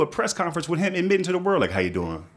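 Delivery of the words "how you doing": lower, casual admission; mock sheepish confession. Politician at his press conference, lower and casual. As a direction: shrug it off like a guilty husband.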